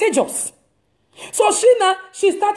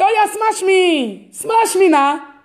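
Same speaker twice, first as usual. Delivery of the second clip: teasing dare; 4 semitones higher, slower than usual. Retold or imitated. Teasing reply to threat.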